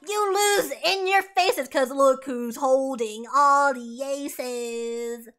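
loud, slow showman gloat; lightly voiced mocking Beetlejuice; gloating demon. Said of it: "and Beetlejuice is like".

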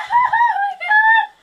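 high, loud distressed cry; high cold shock. Real, not acted. Sitting in ice water.

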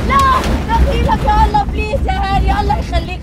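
loud, high frantic pleas; panicked begging. Real, not acted. Guest terrified up high begging Hani. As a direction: beg in real terror to be let down.

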